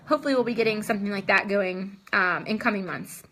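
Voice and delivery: short of breath, gasping between phrases. Real, not acted. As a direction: talk while winded and breathless. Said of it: "out of breath and short of breath".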